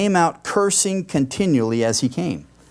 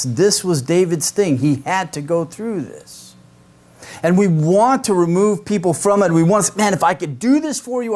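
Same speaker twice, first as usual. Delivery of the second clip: raised-pitch, impassioned sermon delivery; fervent preaching; 6 semitones higher than usual. Acted. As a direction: preach it with mounting urgency. Preaches with rising fervour.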